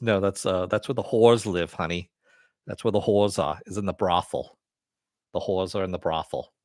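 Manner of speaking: rough attempt at a New York accent. Host explaining a brothel to "honey", mock New York accent. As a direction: put on a casual, shaky-quality Brooklyn accent. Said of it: "New York accent".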